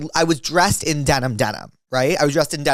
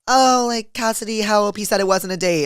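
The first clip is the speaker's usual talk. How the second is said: high-pitched mock imitation; mocking mimicry; 7 semitones higher than usual. Date mimicking the storyteller's friend excuse, high and mocking. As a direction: mimic someone in an exaggerated high voice. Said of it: "he, like, kinda mimicked me".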